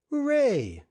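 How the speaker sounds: joyful shout. A narrator's reading. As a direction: greet old friends with delight. Beasley welcomes unexpected guests.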